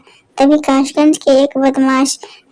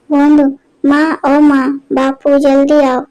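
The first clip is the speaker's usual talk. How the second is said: calling out. Acted. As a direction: shout across the house for help. Son calls parents from kitchen.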